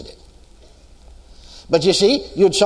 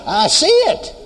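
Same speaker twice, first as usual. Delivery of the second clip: dawning realization; slower than usual. Retold or imitated. Retold dawning realization, repeated words.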